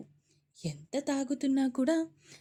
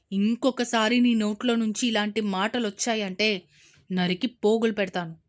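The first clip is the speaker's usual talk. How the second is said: furious, much louder threat; angry yell; 2 semitones lower, 7 dB louder than usual. Acted. Father threatening daughter in rage. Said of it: "కోపంగా అరిచారు".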